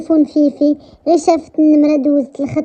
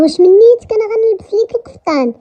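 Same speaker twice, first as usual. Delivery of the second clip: higher-pitched, disbelieving question; acted disbelief, pitched up; incredulous protest; 7 semitones higher than usual. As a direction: protest as if it's absurd. Acted protest at wearing a kaftan.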